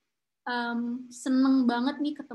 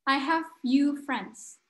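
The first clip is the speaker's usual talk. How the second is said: sad few friends; 2 semitones higher, much slower than usual. Shown as a demonstration. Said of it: "Sedih banget".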